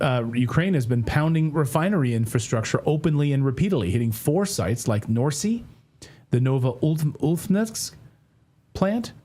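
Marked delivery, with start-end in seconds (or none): 6.3-7.9 Novoultnevsk sounded out slowly, syllable by syllable; slow, effortful attempt at the Russian name Novoultnevsk; careful pronunciation. Shown as a demonstration. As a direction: pick your way through Novoultnevsk carefully. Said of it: "Those are two sites that I can pronounce".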